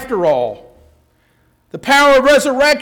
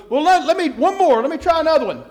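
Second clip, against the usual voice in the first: higher-pitched hasty plea; acted pleading; 5 semitones higher, faster than usual. Dog owner to talent agent, higher mock pleading. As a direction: lightly beg for another chance.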